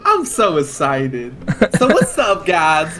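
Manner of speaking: a sudden high, loud hyped streamer voice; jokey wrong voice, way up high and loud; wrong character voice. Acted. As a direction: burst in like a hyper YouTuber greeting fans. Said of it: "that's not my voice".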